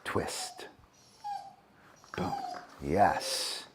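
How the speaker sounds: hushed praise. Real, not acted. Trainer whispering praise to her dog Cupcake, hushed. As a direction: breathe the cues softly so the dog stays focused.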